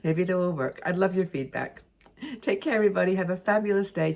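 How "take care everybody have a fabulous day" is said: upbeat, slightly raised farewell; lively sign-off to the viewers; cheerful goodbye. Real, not acted. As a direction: wave them off brightly. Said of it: "sign-off to viewers".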